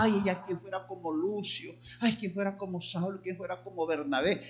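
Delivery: softly voiced mock longing; wistful admiration, acted. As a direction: act out an onlooker quietly wishing. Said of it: "la gente los miraba". (anhelo admirado, imitado en voz baja)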